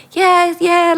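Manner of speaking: retold eager going-along; acted breezy agreement. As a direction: agree readily, pitched well up. Retold carefree agreement to deal.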